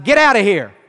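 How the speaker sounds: firm, loud rebuke to a snake; stern command. Shown as a demonstration. Preacher showing how he rebuked the snake, loud and stern. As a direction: bark it at the snake like at a dog. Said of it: "this was my tone and inflection".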